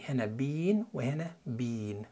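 both "بين" with the same long ee; same pronunciation twice. Shown as a demonstration. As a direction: say each "بين" identically, like British "bean". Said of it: "الاتنين نفس النطق". (بين وبين بنفس النطق الممدود)

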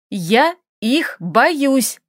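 each word rapped out slowly; clipped and slow. Acted. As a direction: spell out the fear word by word. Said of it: "отчеканила Лилия". (чеканно и медленно, по слогам)

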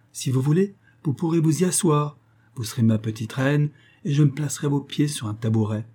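lightly voiced proud underworld king; a hint of a boastful king; king Pluto voice. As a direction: coax her with grand promises.

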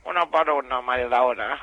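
low, hushed seductive murmur; voz seductora. Acted. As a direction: purr it like a lover. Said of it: "Es un asco". (susurro seductor grave)

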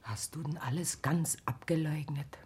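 hushed, worried whisper; anxious whisper to Rose; whispered question. Acted. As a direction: ask it under your breath.

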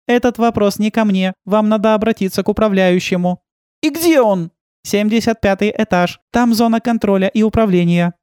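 the courteous android guide; Yana's voice. A narrator's reading. Narrator voices Yana the robot guide. (вежливый высокий голос гида)

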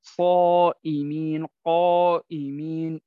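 صائمين، قائمين drawn out slow with heavy alif. Shown as a demonstration. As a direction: stretch the alif full and thick after the emphatic letter. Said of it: "فخمت". (ألف مفخمة ممدودة)

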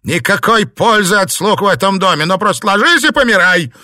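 loud, high furious scolding; scolding rant. A narrator's reading. Mistress berating her maids, angry rant. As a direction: tear into the useless servants.

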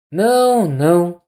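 a high, frightened no; terrified denial. A narrator's reading. Anna seeing her husband and crying out in terror. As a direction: shrink back from her husband in fear. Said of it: "com o terror".

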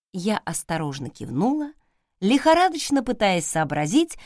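plain reading voice

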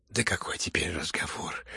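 hushed, scared urgent plea; frightened whisper. Acted. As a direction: whisper it in alarm. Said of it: "всё больше и больше пугалась". (испуганный шёпот)

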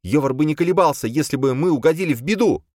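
put-on high, impatient young woman's voice; an exasperated girl pushing to leave; Boya, impatient. Boya impatient with the others, high and pushy.

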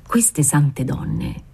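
very slow, as if talking in a dream; a father musing, far away in thought; slow, dreamlike. Acted. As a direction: let each word drift out slowly. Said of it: "soggiunse lentamente... come se parlasse in sogno".

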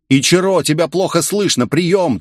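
high, rapid radio chatter; rattling off. A narrator's reading. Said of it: "Тут же затараторил Масаши".

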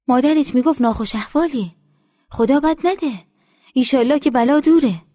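put-on high, loud, eager voice of an older village woman. A narrator's reading. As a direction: greet her like a long-lost daughter. Nesa consoles the girl.

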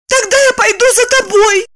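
high, blurted in despair; desperate blurt. A narrator's reading. Helpless Lipochka blurting she'll follow Roman. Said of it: "в отчаянии выпалила Липочка".

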